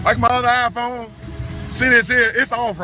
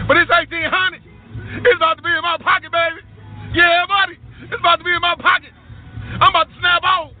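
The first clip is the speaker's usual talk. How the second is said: fast, higher, gleeful bragging; excited; 3 semitones higher, faster than usual. Real, not acted. To viewers about his pocket money, gleeful fast brag. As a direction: crow about the money coming in. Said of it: "I'm excited".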